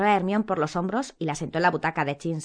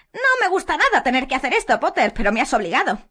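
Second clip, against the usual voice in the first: high, loud simpering threat; falsely regretful, pitched up; Umbridge voice; 8 semitones higher, 6 dB louder than usual. A narrator's reading. Umbridge blaming Potter for forcing her, high.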